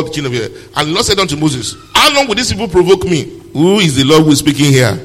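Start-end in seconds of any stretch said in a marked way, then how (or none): 1.9-3.3 the provoked angel complains, lightly voiced; angry angel. Preacher voicing the provoked angel, mildly indignant. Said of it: "Does God speak like this?".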